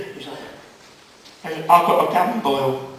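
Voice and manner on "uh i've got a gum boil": slow, laboured patient's reply; lightly acted sufferer with a sore mouth; gum boil patient. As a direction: drag the words out like a patient.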